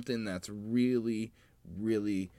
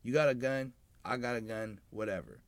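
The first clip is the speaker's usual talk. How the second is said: frat bro; 2 semitones higher than usual. Retold or imitated. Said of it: "kinda making a P S A".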